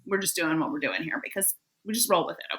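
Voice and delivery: echoey, like in a bathroom; distant bathroom sound; from another room. Real, not acted. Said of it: "I sound like that I'm in the bathroom".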